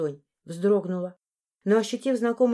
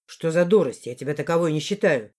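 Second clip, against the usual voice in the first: lowered, scoffing man's voice; low man's snort; 4 semitones lower than usual. Acted. Morris scoffs at her in a low voice. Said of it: "фыркнул Моррис".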